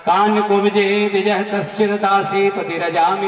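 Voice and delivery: measured, sustained shloka chant; Sanskrit verse recitation. Acted. Preacher quoting the scripture on Ajamil, chanted. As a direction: intone the verse syllable by syllable.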